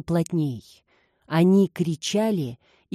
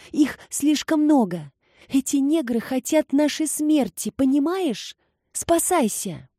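higher, urgent panicked pleading; alarmed exclaiming; 7 semitones higher than usual. A narrator's reading. Maid urges her mistress to flee, higher and panicked. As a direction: beg her to run, frightened and breathless. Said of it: "воскликнула Паулина, стараясь перевести дух".

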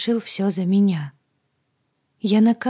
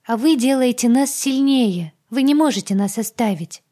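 rattling off; 6 semitones higher, 6 dB louder than usual. Acted. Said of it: "тараторила Агата".

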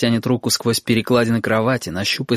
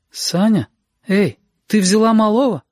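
высокий голос встревоженной матери; окликни дочь из-за двери; сонная мама; 10 semitones higher, 3 dB louder than usual. Acted. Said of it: "неуверенный голос мамы". (мама спросонья зовёт дочь)

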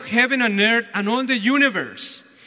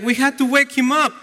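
higher, quick worried retelling; 5 semitones higher, faster than usual. Retold or imitated. Disciples deciding they must wake the Lord, acted worry. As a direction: imitate anxious urgency, hurried and raised. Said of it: "so worried".

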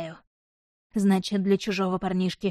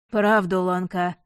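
harshly; slower than usual. Acted. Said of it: "жёстко сказал Штефан".

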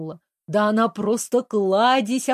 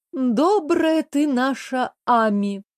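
mocking snort; 4 semitones higher, slower than usual. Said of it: "хмыкнула Жени".

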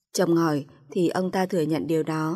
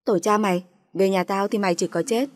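furious cursing. Acted. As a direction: swear at her to scare her. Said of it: "Kiều chửi tôi xối xả".

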